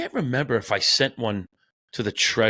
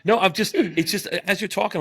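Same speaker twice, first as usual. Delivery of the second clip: laughing; 11 semitones higher than usual. Real, not acted. Laughing while explaining.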